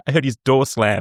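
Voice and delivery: laughing. Real, not acted.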